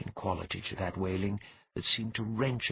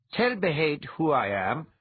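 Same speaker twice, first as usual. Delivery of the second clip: Emmy's voice; 6 semitones higher, 6 dB louder than usual. A narrator's reading. Emmy speaking.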